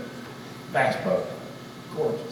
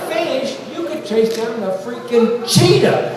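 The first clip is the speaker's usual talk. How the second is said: excited boast; 7 semitones higher, 4 dB louder than usual. Retold or imitated. Retold boast to fishing crowd.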